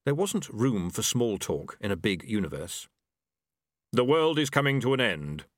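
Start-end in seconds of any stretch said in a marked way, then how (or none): 3.9-5.5 unhurried Death, every word weighed; grim reaper voice. A narrator's reading.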